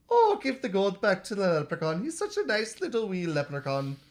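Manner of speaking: leprechaun faking a sweet wife; mimicked wife voice. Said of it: "The leprechaun mimics her voice again".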